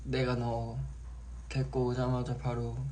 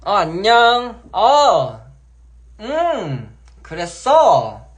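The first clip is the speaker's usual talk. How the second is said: 높고 크게 애교 섞인 목소리; 팬에게 애교 부리듯 높게; cute aegyo voice; 8 semitones higher, 13 dB louder, much slower than usual. Shown as a demonstration. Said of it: "이런 사람 잘 낸단 말이야". (애교 섞인 높은 목소리)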